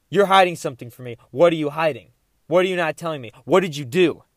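mildly angry retold accusation; mad at me. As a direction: press the questions, a touch heated. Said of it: "he's like, mad at me".

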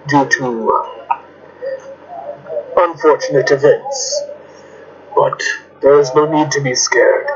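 slow, measured reassurance with long pauses; calm, formal character. Acted. Telling a scared creature there is no need to be scared, calm and measured. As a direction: speak formally and evenly, phrase by phrase.

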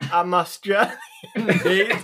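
mock Australian breaking into laughter; Australian accent. Player claims to be from down under, laughing Australian accent. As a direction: put on an Australian accent, giggling. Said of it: "talk like you're from down under".

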